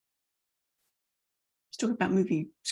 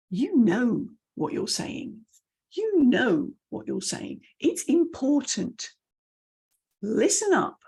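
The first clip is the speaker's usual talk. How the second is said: slow, emphatic, punched with falling endings; command tone; 3 semitones higher, slower than usual. Shown as a demonstration. Speaker sure of the message, commanding and deliberate. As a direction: state it firmly, stepping down each phrase. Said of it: "that command tone".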